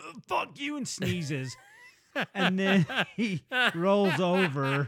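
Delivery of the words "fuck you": very high, short grunt. Describing how Brad sounds in bed: grunting like Brad. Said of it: "He just grunts".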